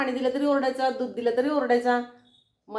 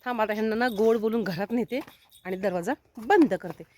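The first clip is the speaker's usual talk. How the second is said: ordinary delivery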